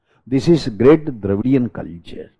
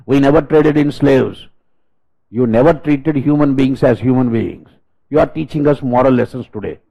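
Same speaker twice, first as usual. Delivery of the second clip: indignant retort; 3 semitones higher, 3 dB louder than usual. Real, not acted. Lecturer rebukes European critics, loud and indignant. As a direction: hurl the charges back at them.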